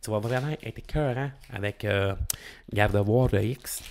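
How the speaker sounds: put-on light Acadian accent, selling a deck to a friend; a hint of Acadian French, pushy and chummy. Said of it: "j'ai pris mon accent, euh, acadien".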